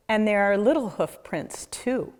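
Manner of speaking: ordinary delivery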